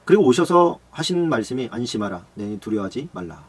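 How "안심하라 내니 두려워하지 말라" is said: calm reassurance. Acted. Jesus comforts again. (두려워하는 제자들을 낮고 느리게 안심시키는 예수님)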